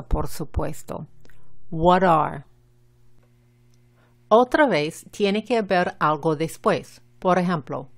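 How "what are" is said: "What are?" linked by a Spanish-style T, English R at the end; "are" ending on a clear English R. Shown as a demonstration. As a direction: model "What are?" with a tapped T. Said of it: "la T es la española".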